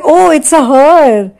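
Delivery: slow, drawn-out knowing "oh"; mock-intrigued friend, stretched out; intrigued reaction. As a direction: tease him with a long, interested reaction. Friend reacts in retold chat.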